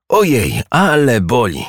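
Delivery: high-pitched storybook yelp of pain; pained cry. A narrator's reading. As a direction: exclaim it high, like a hurting little hedgehog. Hedgehog in pain after overeating. (wysoki, bolesny okrzyk bajkowego jeża)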